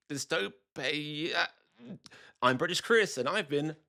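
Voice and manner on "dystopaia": "Dystopia" drawn out very slowly, sounding out A I inside; punning pronunciation. Shown as a demonstration. Punning on A I for viewers, "Dystopia" slowly distorted to contain it. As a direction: stretch "Dystopia" into dis-toe-pay-eye-a. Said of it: "can't spell dystopia without A I".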